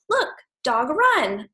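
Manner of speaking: slow, high mock of a parent saying Look, dog run with clipped grammar; parent's wrong telegraphic talk, said slowly; broken baby grammar. Shown as a demonstration. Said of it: "parents that are like".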